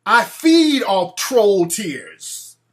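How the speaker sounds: slow, drawn-out vampire menace; slow, menacing vampire boast. Pretend. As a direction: play a gloating vampire, very slow. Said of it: "I'm like a vampire".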